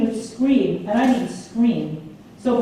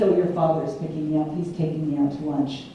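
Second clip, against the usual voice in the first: mom's voice; 7 semitones lower, 4 dB quieter than usual. Retold or imitated. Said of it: "And she says".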